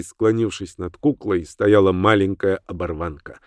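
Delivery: plain reading voice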